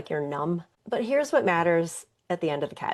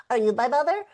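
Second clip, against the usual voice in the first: higher, louder small-bird question; baby bird asking the walrus, in a higher voice; little bird; 7 semitones higher, 4 dB louder, faster than usual. Acted. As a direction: ask with hope as the chick.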